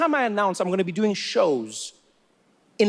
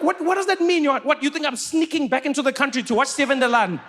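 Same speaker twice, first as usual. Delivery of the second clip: incredulous protest; 7 semitones higher than usual. Retold or imitated. Incredulous retort, high pitch.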